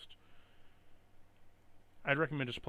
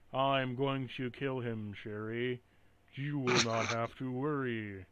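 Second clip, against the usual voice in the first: flat, slow, lifeless delivery; monotone; slower than usual. Retold or imitated. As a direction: read it with zero emotion. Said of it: "sounds like this, a monotone".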